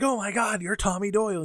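high, mock-amazed Loomis; mock awe. Loomis reacting to Tommy with high mock amazement. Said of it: "Loomis is like".

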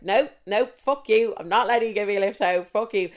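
retold indignant refusal, punched at the start; angry refusal. Upset woman turning down her ex's lift home, indignant. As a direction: re-enact digging your heels in, crossly.

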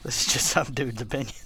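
hushed conspiratorial whisper. Acted. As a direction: whisper it like a secret. Whispered aside about opinion.

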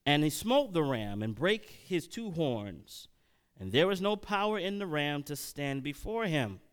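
measured Bible reading aloud; scripture reading. Acted. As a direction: read the passage out verse by verse. Reads Daniel aloud.

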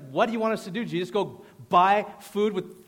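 acted-out indignant sarcasm; rude sarcasm. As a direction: throw it back as a rude, mocking question. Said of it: "This is very sarcastic, very probably rude".

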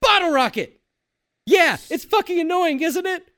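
high, loud rant imitating an annoyed man; mock screaming. Host as the guy screaming at 3 AM, mock screaming. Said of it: "The guy screaming goes".

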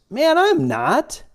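very high, drawn-out protest; protesting denial. Acted. Peter denying he is a follower of Jesus, protesting. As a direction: stretch out an indignant mock denial.

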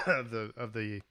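coughing, throat catching mid-sentence; words strained through a cough; choking on something. Real, not acted. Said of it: "I'm choking on something".

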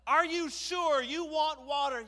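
high, loud, drawn-out question; stalling shout. Acted. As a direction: shout it out to the crowd. Moses stalls before the crowd.

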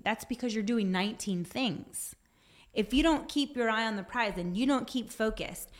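ordinary talk

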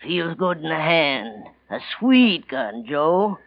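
slow, relishing every word; lightly voiced gloating killer; slow gloating menace. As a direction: savour the threat. Gunman savouring the weapon.

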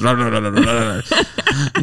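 devour the food noisily; greedy pig gobbling. Retold or imitated.

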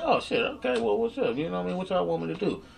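high, thrilled voice; overjoyed at the news; excited. Retold or imitated. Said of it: "I was like".

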